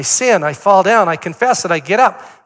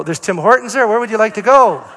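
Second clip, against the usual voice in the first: higher, louder, with a laugh; amused pointed hint to a grandson; laughing hint again; 5 semitones higher, 7 dB louder, faster than usual. Retold or imitated. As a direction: push the hint while laughing.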